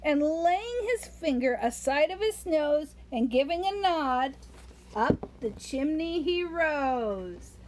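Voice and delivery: put-on rhythmic read-aloud to a child; lilting Christmas poem reading; storybook poem reading. A narrator's reading. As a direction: read the verse like a bedtime story.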